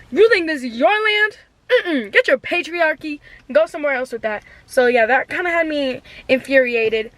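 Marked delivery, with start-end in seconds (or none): 0.1-4.4 higher-pitched mock outrage with a cry in the voice; indignant rant. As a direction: tell the patriarchy off, hammed up. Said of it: "Something inside of me was like".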